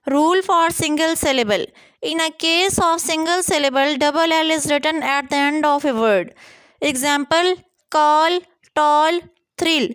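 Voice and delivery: spelling rule read slowly for students; slow dictation. Shown as a demonstration. Teacher to students reading the rule, slow dictation. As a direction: dictate each word slowly and evenly.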